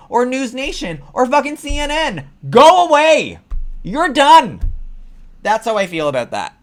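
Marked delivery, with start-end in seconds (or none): 2.5-4.6 loud, high shout; furious high shout; yelling. Real, not acted. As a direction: shout him off the stage. Yelling at Geraldo Rivera.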